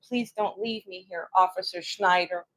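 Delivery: hushed, almost whispered begging, mildly acted; retold begging. Man begging the German officer to stay, soft retold plea. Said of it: "to beg the officer".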